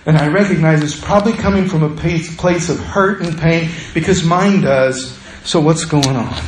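meet their anger with calm compassion; compassionate reply. Acted. A person who learned compassion answering an angry friend, gently. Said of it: "And they say".

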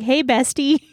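casual mock pick-up line; lightly acted overfamiliar hello; chummy greeting. Suitor sidling up to a woman in the park, chummy.

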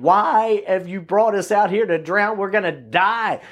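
a touch of mock alarm; freaking out. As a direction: voice the frightened disciples, lightly dramatised. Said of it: "and they're freaking out".

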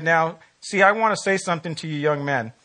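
lightly imitated Texas accent; a hint of Texan twang, retelling a blunt politician. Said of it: "in his Texas accent".

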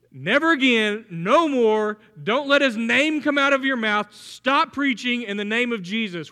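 mock stern prohibition, emphatic; grouchy orders. Preacher voicing religious authorities forbidding the apostles, grouchy and insistent. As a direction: lay down the ban in short bursts. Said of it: "Why are they so grouchy about this?".

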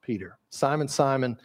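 a touch of tender paternal fondness; affectionate call. Acted. Preacher imitating Jesus gently calling Peter, affectionate. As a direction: call the names gently, shaking your head. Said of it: "that affectionate way that he speaks".

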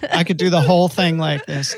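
put-on Southern accent. Shown as a demonstration. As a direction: show off a Southern twang. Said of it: "I'm doing the Southern accent thing".

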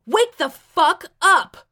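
slow, high, furious yell. A narrator's reading. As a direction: shout each word to rouse him. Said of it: "I yelled".

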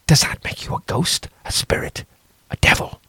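fearful hushed question; whispered question. A narrator's reading. Priest whispering to the stranger about ghosts. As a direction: ask it under your breath.

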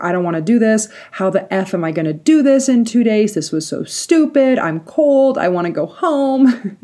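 mock distressed whining; terrified complaint. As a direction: act out a mild panicky protest, wanting out. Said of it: "I'm also terrified that I'm just like".

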